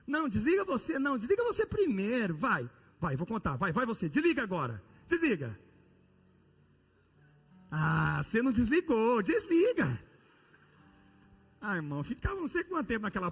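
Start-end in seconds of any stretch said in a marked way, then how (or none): 0.1-5.6 higher, playful lovey-dovey teasing; giggly late night call. Retold or imitated. Lovers' phone banter escalating. 7.7-9.9 high squeaky lovey-dovey plea; giggly late night call. Retold or imitated. Lovers' phone banter, higher.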